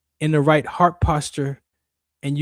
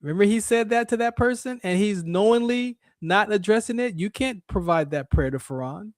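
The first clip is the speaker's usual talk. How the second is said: pitched-up accuser pleading his case to God; Satan accusing; 5 semitones higher than usual. Acted. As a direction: tattle on him to God, higher and pushy. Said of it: "Satan and his devices are gonna go to God".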